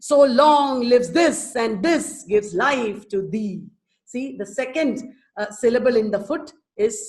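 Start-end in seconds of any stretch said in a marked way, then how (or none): 0.1-3.6 measured verse with strong beats; recite, landing firmly on the stressed syllables; verse recitation. Shown as a demonstration. Teacher reciting a sonnet to the class, measured recitation.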